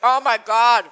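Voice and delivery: slow, drawn-out amazement; amazed. Real, not acted. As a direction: savour every word. Tasting the perfect bite.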